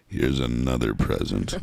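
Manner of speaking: very low, slow soul-singer impression; playful slow, deep voice of a famous soul singer. Shown as a demonstration. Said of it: "doing the soul-singer voice".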